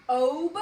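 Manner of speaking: "Ob" punched out loud on its own; one loud, separate beat on "Ob"; isolated syllable. Shown as a demonstration. Teacher showing the second syllable, "Ob" loud and separate. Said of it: "that's the second syllable".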